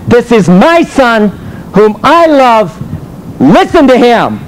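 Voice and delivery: slow, solemn proclamation, lightly voiced; a hint of God's voice, slowed and weighty; voice from heaven. Voice from heaven quoted.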